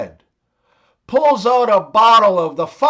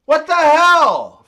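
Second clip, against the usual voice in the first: higher-pitched mock yell in a joke; mock Canadian yell; 5 semitones higher, 3 dB louder than usual. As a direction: call out in exaggerated disbelief. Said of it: "the Canadian guy yells".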